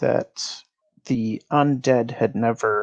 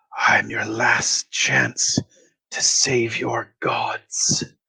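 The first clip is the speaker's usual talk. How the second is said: whispering voice, hushed. A voice speaks as a figure's eyes and bones glow green, whispering. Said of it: "you hear a whispering voice say".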